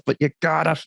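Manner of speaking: lightly voiced pastor Gary, urging; Gary impression. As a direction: pastor imitating his colleague Gary, lightly. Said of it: "I'm trying to do my best Gary impression".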